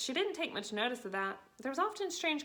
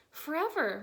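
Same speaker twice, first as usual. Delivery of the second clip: despairing cry; 6 semitones higher, 4 dB louder than usual. A narrator's reading. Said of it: "Matilda cried".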